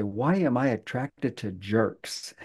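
hushed, slow whisper; slow whisper of a girl's question; whispered quote. Retold or imitated. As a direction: whisper it like overhearing a secret. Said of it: "I actually heard a girl say".

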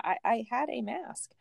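whispered aside. Real, not acted. Woman repeating to her friend that she had a mask, whispered. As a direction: breathe it out with no voice.

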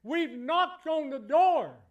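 loud, slow, building declaration; slow, rising football-coach boast; booming locker-room brag; coach's boast. Retold or imitated. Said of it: "Bum Phillips said".

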